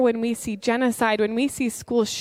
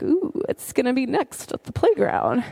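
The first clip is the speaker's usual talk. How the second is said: thrilled; 2 semitones higher than usual. Retold or imitated. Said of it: "I get a thrill out of it".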